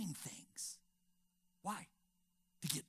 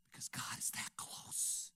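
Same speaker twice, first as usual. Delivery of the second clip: whispered; 6 semitones lower, 7 dB quieter than usual. Real, not acted. Preacher whispers the point.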